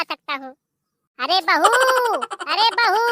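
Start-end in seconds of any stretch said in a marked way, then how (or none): 1.2-1.7 a loud call to the daughter-in-law; mother-in-law calls out to the daughter-in-law, loud. Acted. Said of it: "गला फाड़ फाड़ के चिल्ला रही हूँ". 2.5-3.0 a loud call pitched much higher; mother-in-law calls the daughter-in-law again, higher and loud; louder, higher call. Acted. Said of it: "गला फाड़ फाड़ के चिल्ला रही हूँ".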